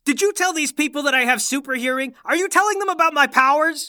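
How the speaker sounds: rising, incredulous accusation; indignant. Acted. Father accuses son of telling his secret, indignant. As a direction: demand an answer with growing outrage.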